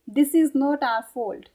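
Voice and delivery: very slow, every word spaced out; slow English model sentence; slow teaching demo. Shown as a demonstration. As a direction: dictate it slowly so they can follow. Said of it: "इसको English में कैसे बोलेंगे".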